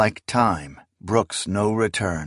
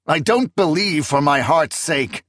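higher, earnest protest; 7 semitones higher, 3 dB louder than usual. Acted. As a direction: press the point, a little hurt. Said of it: "Akamian had protested".

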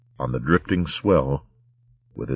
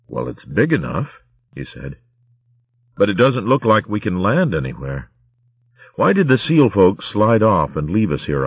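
put-on young mouse warrior; 2 semitones higher than usual. Martin speaks.

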